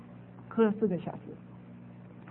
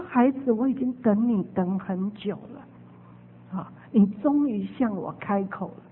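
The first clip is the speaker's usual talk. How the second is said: low and soft, tenderly repeating; gentle voice of Jesus; 3 semitones lower, 3 dB quieter than usual. Retold or imitated. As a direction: reassure the child who finally spoke. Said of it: "主耶稣说". (轻柔慈爱地重复耶稣的话)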